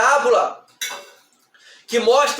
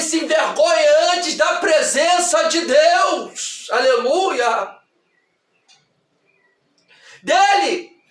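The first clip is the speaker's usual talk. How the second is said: raised, sustained preacher's voice; forceful preaching; 3 semitones higher than usual. Acted. Preacher warns the congregation about shame before enemies, forceful preaching.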